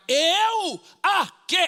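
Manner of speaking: high, loud incredulous yelp; mock astonishment. Husband to wife about the market, in loud mock shock. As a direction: play up the disbelief.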